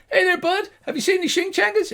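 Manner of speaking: very high, loud, quickening hail; gnome shout. Acted. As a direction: shout across as a tiny gnome. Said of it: "the gnome shouts".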